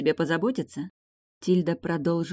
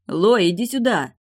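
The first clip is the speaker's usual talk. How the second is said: higher, louder call to the corridor; 6 semitones higher, 6 dB louder than usual. Acted. Brother calls his sister from the corridor, loud. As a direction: shout for her to come. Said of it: "позвал Дамьен сестру".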